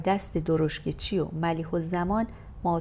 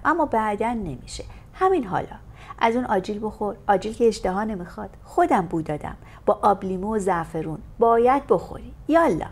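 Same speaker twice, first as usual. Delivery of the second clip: put-on louder, insistent coaxing of a shy boy; stern motherly scolding; 3 semitones higher, 3 dB louder than usual. Aunt pushes nephew Amir to eat, stern and loving. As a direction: scold him like a fussing aunt, but with love. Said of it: "با قهر و مهری مادرانه".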